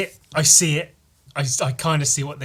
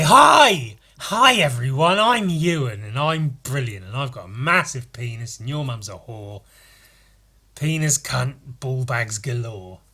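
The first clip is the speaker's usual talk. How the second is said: mock version of himself; 6 dB louder than usual. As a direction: send up your own chirpy intro. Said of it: "when I talk, I, I say".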